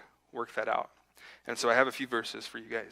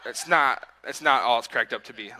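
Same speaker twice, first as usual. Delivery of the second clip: laughing; 8 dB louder than usual. Real, not acted. Joking about taking up running.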